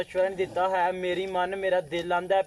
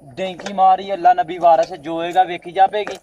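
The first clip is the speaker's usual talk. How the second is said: louder, hammering the point home; loud insistence; 6 dB louder than usual. Acted. To friends arguing about visas, loud and insistent. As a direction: declare it with full conviction. Friends argue over dunki plan.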